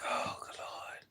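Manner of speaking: slow breathy whisper to herself; whispered aside. Retold or imitated. Muttering to herself about the cashier, slow whisper. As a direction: mutter it under your breath, exasperated.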